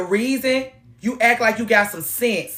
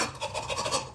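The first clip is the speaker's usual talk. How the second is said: mock gasp; 15 dB quieter than usual. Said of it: "And he like".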